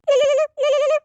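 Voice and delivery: loud, high sung ringtone noise; mouthed phone ringtone. Acted. Friend mimics a ringing phone, loud and high. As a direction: sing the phone's ring out loud.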